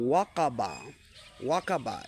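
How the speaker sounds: ওয়াকাবা with every vowel kept short; no lengthening. Shown as a demonstration. Teacher demonstrating the short reading for students. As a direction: keep ওয়াকাবা short, stretch nothing. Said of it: "বাড়ছে না".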